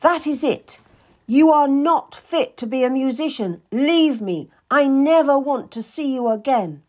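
high, loud banishing; angry dismissal. Acted. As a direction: throw her out of the room for good. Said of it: "as she berated me".

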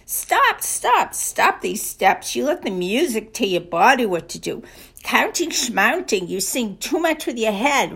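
playful mock German coaxing; German accent. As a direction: imitate a bossy German dance partner. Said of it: "Gunther says to Rosita".

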